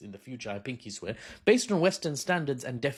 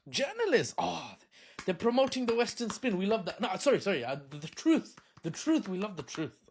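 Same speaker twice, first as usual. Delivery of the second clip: high mock delight; sarcastic; 5 semitones higher than usual. Comedian mocks journalist winners, high sarcastic coo. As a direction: coo over the Western spin.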